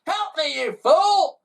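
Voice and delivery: high loud angry call; wife shrieking at her husband; crying out. Acted. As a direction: snap at the useless husband. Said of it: "she cried out".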